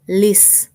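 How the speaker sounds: "lis" said alone, firm; teacher pointing out stress; stressed syllable. Shown as a demonstration. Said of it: "primer sílaba".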